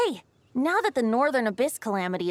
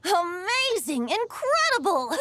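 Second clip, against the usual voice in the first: high, slow, gushing delight; thrilled praise; 6 semitones higher than usual. Acted. Bard to the traveler, drawn-out thrilled praise. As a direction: lay the wonder on thick, slowly.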